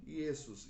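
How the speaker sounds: Iesus as ee-EH-soos, no J; the Latin Iesus, vowel first. Shown as a demonstration. Teacher giving the Latin example, Latin Iesus. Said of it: "em latim".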